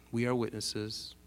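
quiet, lightly voiced chorus answer; people's voice. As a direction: lightly imitate a half-hearted crowd. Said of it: "their voice?".

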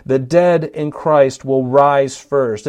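slowed down, "dead" stressed; slow emphasis. Shown as a demonstration. Preacher slowly stressing the order of rising. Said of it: "Notice the order".

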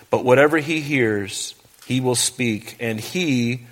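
measured, solemn Bible reading; scripture reading. Acted. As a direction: read the verses with weight, slowing on key lines. Reads scripture aloud in sermon.

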